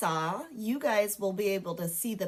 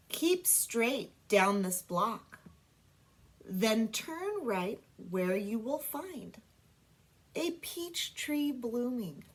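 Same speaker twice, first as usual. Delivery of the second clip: slow, careful poem reading; slower than usual. Shown as a demonstration. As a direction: read the haiku slowly to children. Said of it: "Okay, ready?".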